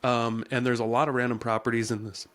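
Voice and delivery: hiccuping mid-sentence; hiccups. Real, not acted. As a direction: talk through the hiccups. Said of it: "Excuse me, I'm hiccuping".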